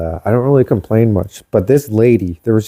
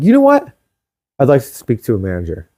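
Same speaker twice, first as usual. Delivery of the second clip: mock indignant Karen, fast on the ask; lightly voiced Karen demanding a manager; faster than usual. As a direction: play the entitled customer demanding the boss. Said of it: "I pulled a Karen".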